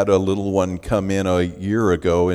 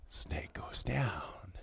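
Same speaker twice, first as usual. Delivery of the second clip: whispered, softer and slow; whispered aside; 3 semitones lower, 17 dB quieter, much slower than usual. A narrator's reading. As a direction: hush it like a secret. Hushed aside during the prank.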